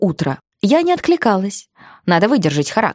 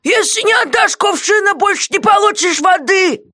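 threatening jailer; 11 semitones higher than usual. Acted. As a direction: threaten to cut off the water. Guard threatening.

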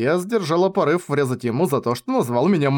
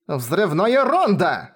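slow, higher-pitched incantation; invoking a spell; 5 semitones higher, much slower than usual. A narrator's reading. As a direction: draw out the spell as a call. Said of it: "воззвала я".

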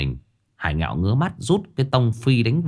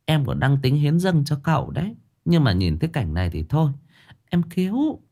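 a hint of coy higher gossip; woman regretting handsome master is gay; lightly voiced flirty woman; 4 semitones higher than usual. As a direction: sigh over the lost catch.

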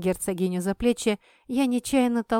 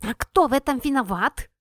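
yelling; 5 semitones higher, 4 dB louder than usual. A narrator's reading. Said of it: "заорал в ответ шнырь".

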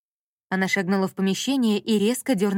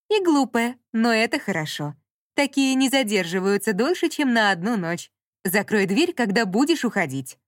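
condescending speaker; 3 semitones higher than usual. Acted. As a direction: dismiss her coolly. Speaker insulting, dismissive.

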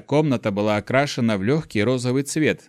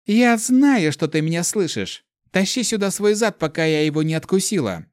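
calling out threat; 6 semitones higher than usual. Acted. Girl calls Vlad threateningly.

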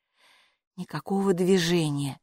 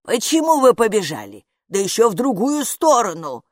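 loud, wailing gatekeeper's complaint; lamenting; 5 semitones higher, 7 dB louder than usual. A narrator's reading. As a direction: moan and lament. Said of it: "причитала привратница". (причитает)

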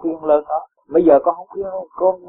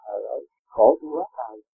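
a soft, whiny sigh of complaint; mock whining; 6 dB quieter than usual. Teacher mimics a complaining disciple, softly whining. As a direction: imitate a disciple moaning about debts, softer. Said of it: "mà con cứ than hoài".

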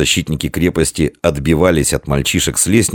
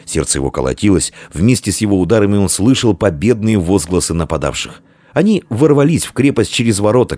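usual speaking voice

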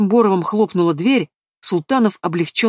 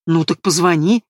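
angry. Acted. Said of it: "Ещё больше разозлилась Лера".

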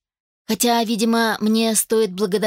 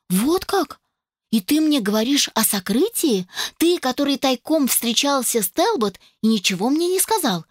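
blurted out; 6 semitones higher than usual. Acted. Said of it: "выпалила я".

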